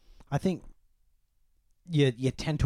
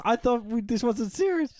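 woman's voice; 12 semitones higher than usual. Retold or imitated. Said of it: "She goes".

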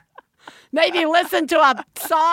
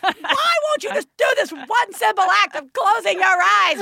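exasperated plea; 9 semitones higher than usual. Retold or imitated. Exasperated parent pleading with child.

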